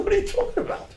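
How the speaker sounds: high, astonished disbelief; incredulous. Retold or imitated. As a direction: throw up your hands in amazement. Incredulous reaction to David's claim.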